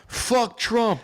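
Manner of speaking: high, loud laughing mock De Niro rant; Robert De Niro. Cohost jokingly quoting a famous actor's award speech, laughing. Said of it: "first thing I think about De Niro".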